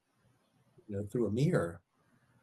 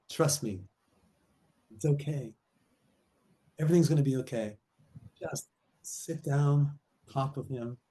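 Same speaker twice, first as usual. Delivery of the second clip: reassuring; 3 semitones higher than usual. Retold or imitated. Friend advising a nervous wife to trust and talk, reassuring. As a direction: gently talk a friend round, pausing between phrases.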